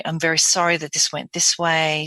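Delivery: lightly breathy, measured apology; some breath, logical. Shown as a demonstration. Dentist apologizing to a patient, slightly breathy and logical. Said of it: "I've got some breath in there".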